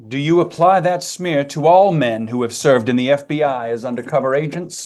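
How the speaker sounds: loud, indignant accusing question; angry shout. Real, not acted. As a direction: hammer the question at the witness. Heated clash between congressman and witness.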